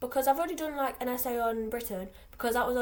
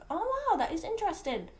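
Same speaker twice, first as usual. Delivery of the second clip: mock fascinated; 8 semitones higher than usual. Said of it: "interested as in".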